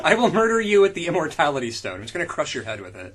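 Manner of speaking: laughing mock threat. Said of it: "mock villain quote".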